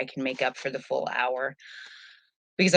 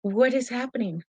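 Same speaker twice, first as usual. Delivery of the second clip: a mock-panicked pup; voicing the dog; 6 semitones higher than usual. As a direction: play the startled dog, stretching each word. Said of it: "she's just like".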